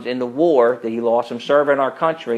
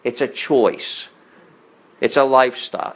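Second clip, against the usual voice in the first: mocking quote; 2 semitones lower than usual. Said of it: "these little words like".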